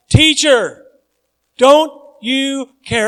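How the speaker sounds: loud, high anguished cry; shouting. A narrator's reading. Disciples shouting at sleeping Jesus, loud and desperate.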